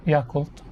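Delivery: Yakult slowly as YAH-kult; open, drawn-out first syllable in Yakult; American pronunciation. Shown as a demonstration. Telling how America says it, YAH-kult. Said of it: "in America, it is pronounced as".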